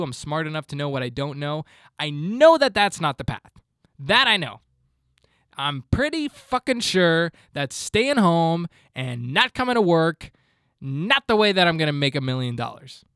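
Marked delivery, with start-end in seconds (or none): 2.0-13.0 louder, fired-up rant; yelling. Real, not acted. Ranting at podcast listeners, loud and fired up. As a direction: push it like a fed-up coach. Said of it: "so instead I just yelled at you".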